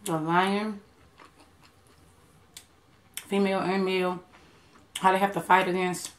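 talking while chewing; chewing food. Real, not acted. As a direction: mouth partly full. Seen 0: Hand at mouth, lips closed chewing through most of the words.

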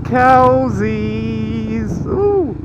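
gleeful high cry of cowsies; excited squeal. Real, not acted. Excited at seeing cows.

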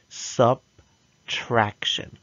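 slow, clear syllables; slow model word. Shown as a demonstration. Teacher modelling a new word slowly. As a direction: stretch it out for the class. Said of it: "Repeat after me".

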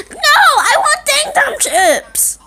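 put-on crying kid wails for chips; little kid demanding snacks, wailing; whiny kid tantrum. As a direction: throw a crying fit.

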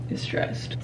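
breathy unvoiced whisper; stressed whisper. Real, not acted. Rushing makeup before the shoot, whispering. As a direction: let it out under her breath.

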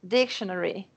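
"dictionary" with DIC carrying the stress; stress on first syllable. Shown as a demonstration. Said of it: "eu não falava desse jeito".

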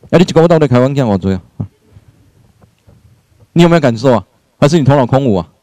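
lightly voiced mother-in-law grumbling in Taiwanese; mock nagging at the daughter-in-law; mother-in-law scolding her son's wife, mildly nagging. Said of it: "婆婆在那跟你碎碎念".

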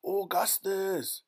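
high, slow, drawn-out scream of a name; shrieky storybook mother; mother's shout. A narrator's reading. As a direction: shout for your son at length. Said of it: "shouted Missus Gloop".

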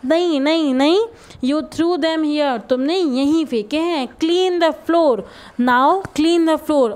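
half-hearted classroom shout; mock loud scolding. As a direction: act out a mild shouted accusation and order. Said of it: "Raju loudly जोर से चिल्ला के बोला".

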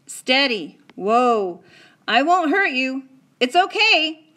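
loud, high calming calls; steady a frightened horse; boy calming a startled horse, cowboy style; soothing a horse. A narrator's reading. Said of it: "like the cowboy himself".

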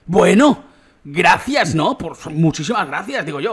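loud, mock-grateful "gracias" to the game; exaggerated sarcastic gratitude, drawn out; sarcastic thanks. Real, not acted. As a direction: thank it with heavy irony after junk loot. Sarcastic thanks for bad loot.

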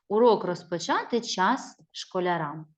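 slow, sing-song chant of a class rhyme; rhythmic school rhyme. Acted. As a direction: chant it gently for little pupils. Teacher recites a rhyme.

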